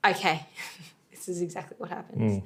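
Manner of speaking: lightly voiced placenta, a hint of an accent; a mild put-on voice breaking into a laugh. Host voicing the placenta cells deciding, mild mock voice. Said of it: "Is that the placentarian accent".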